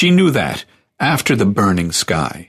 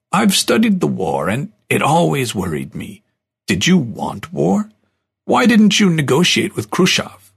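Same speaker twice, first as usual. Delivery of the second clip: higher voice, urgent and pressing; pressing young questioner; 9 semitones higher than usual. Acted. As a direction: press him with worried questions. Cordwainer questions the president.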